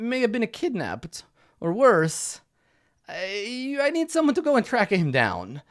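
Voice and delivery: a hint of a fussy, flustered patron; quest giver voice.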